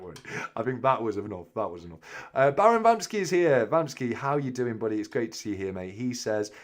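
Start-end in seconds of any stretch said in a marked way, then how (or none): none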